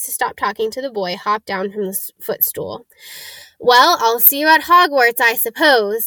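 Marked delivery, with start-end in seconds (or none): 3.6-6.1 put-on a spoiled boy's offhand goodbye; drawling boy. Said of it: "said the drawling boy".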